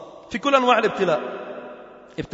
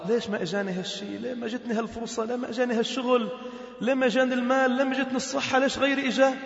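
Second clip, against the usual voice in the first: mock-plaintive string of questions, pitched up; acted complaint; 4 semitones higher, 4 dB quieter, faster than usual. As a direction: play someone grumbling why they were left out. Acts a discontented person questioning fate. (شكوى ممثَّلة بنبرة متذمّرة)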